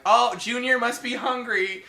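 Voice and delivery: high, loud mock-motherly voice; hammed-up movie mom; imitated doting mother. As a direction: pitch it up like a mum cooing loudly. Voicing film's deranged mother.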